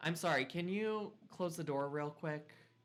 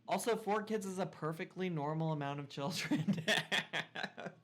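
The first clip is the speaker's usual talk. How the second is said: laughing sarcasm; 3 semitones higher than usual. Real, not acted. Joking about four kids.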